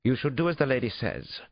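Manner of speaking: high-pitched, haughty Englishman; English suspect. A narrator's reading. Suspect backs his therapist against police, haughty English voice. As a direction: advise them haughtily in an English accent. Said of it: "Schaefer said".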